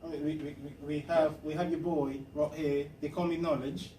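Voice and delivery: hammy mock-British accent; put-on British accent. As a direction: introduce the crew in a fake British accent. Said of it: "I gotta get out of this accent".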